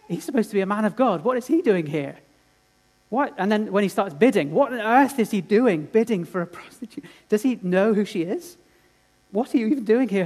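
a touch of scoffing bystanders; mocking onlookers. Onlookers scorn Hosea at auction.

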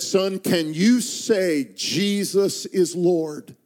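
slow, gentle question; father gently coaxing his son; gentle plea. Retold or imitated.

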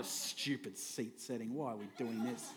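mock complaint under the breath; imitating a grumpy churchgoer moaning about the seating; grumbling churchgoer. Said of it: "feeling that towards me".

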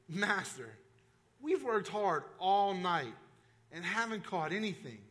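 slow, tired objection; a mild hint of a worn-out fisherman; weary protest. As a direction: let Simon's tiredness drag the words. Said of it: "you can almost hear it in Simon's voice".

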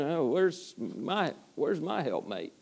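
slow, soft, lonely sigh of a question; Adam longing. Retold or imitated. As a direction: let Adam wonder aloud, slow and soft. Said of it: "he's looking around and going".

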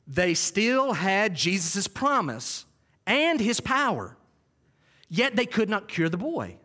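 slow, weighty, each word pressed; slow emphatic stress. Shown as a demonstration. Preacher to church, slowly stressing the point. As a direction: lean on still and could not. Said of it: "That needs repeated".

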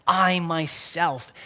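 "I myself" slow, leaning hard on "I"; "I myself" with slow, heavy stress on "I". Shown as a demonstration. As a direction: weigh down the "I" in "I myself". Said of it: "here is emphatic".

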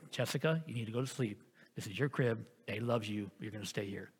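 soft, quiet, steady father voice; very calm. Retold or imitated. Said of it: "I was very calm".

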